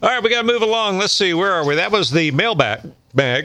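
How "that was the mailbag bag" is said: talking through hiccups; words broken by a hiccup. Real, not acted. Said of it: "Excuse me, I got the hiccups".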